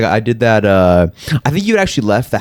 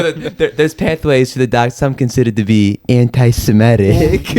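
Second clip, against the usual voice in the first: Palpatine impression. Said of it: "just Palpatine".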